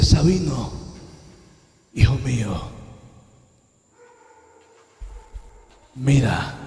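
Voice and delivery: measured heavenly voice, falling at each phrase; firm, assured voice. Retold or imitated. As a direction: say each phrase apart, calmly certain. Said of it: "con una seguridad tan firme".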